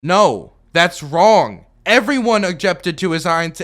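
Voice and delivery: loud, forceful rebuttal; heated objection. Real, not acted. Rebutting the video's claim with a loud, heated objection. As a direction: push back hard and loud.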